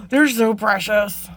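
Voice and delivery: sharp gasp, then slow adoring words; awed gasp. Real, not acted. Vlogger gasps at little dragonfly beads, slow adoring awe. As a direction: coo over something tiny and precious.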